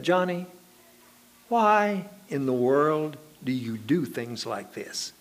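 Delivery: slow mock reproach; retold impatience. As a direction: imitate a worn-down preacher, drawing the question out. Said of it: "gotten a little impatient with him".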